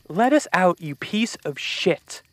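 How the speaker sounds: high, loud angry yell at the locked door; furious shout. Acted. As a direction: scream it out in rage, trapped. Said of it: "She furiously banged on the door".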